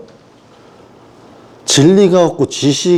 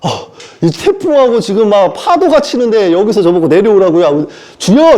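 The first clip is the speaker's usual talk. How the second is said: frightened Peter crying out to the Lord; 6 semitones higher than usual. Acted. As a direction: plead in terror against the storm. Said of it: "무서워서".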